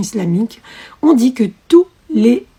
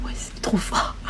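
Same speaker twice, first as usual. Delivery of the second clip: awed whisper, much softer; hushed amazed whisper; 13 dB quieter than usual. Retold or imitated. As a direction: breathe it out in amazement. Awed reply to friend.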